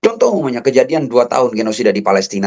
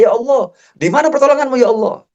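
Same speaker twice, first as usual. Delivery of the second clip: high, pleading outcry of a suffering people; acted plea to God, high-pitched; imitated desperate cry; 12 semitones higher than usual. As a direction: voice the crowd crying out, pitched high but not shouted. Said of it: "ujian sampai-sampai umat berteriak".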